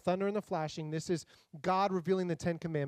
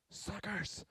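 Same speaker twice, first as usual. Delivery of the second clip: smug taunt; 14 dB quieter than usual. Pretend. Peter taunting the other disciples.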